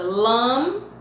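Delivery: "Lambada" broken into "lam", "ba", "da"; very long pause inside "Lambada" after "lam"; split into syllables. Shown as a demonstration. Teacher sounding out a word, "Lambada" syllable by syllable. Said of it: "apenas uma sílaba".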